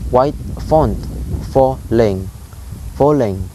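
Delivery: "white font", pause, "falling", each syllable stressed; "white font falling" broken into separate double stresses; spondaic scansion. Shown as a demonstration. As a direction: split "falling" into two equal beats. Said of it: "It's like two high stress syllables".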